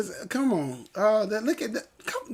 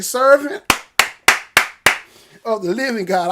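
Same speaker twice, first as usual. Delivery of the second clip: Baptist preaching; 5 dB louder than usual. Real, not acted. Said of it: "I felt my Baptist come out".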